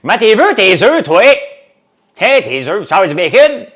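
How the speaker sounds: very high, very loud waitress voice; hammed-up truck stop waitress taking an order; old truck stop waitress. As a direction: squawk it like a worn-out diner waitress. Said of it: "j'ai une voix d'une vieille serveuse de truck stop".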